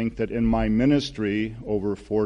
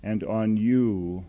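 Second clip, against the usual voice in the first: slow, measured declaration of blessing; lightly voiced blessing, with room between phrases; God's loving voice. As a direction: speak slowly, as if bestowing a blessing. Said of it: "a voice that says".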